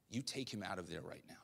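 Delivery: soft, calm and firm command; hushed, steady, certain instruction; quiet voice of God. Retold or imitated. God answering a worried father, softly firm.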